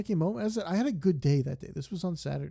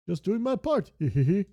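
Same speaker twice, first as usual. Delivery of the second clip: higher, louder line ending in a giggle; game character giggle; 5 semitones higher, 7 dB louder than usual. Pretend. Game character giggling after helping the player, higher and louder. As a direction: play the proud little helper giggling.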